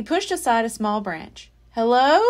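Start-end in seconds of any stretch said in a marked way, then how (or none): 1.7-2.2 calling out. Acted. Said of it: "he said".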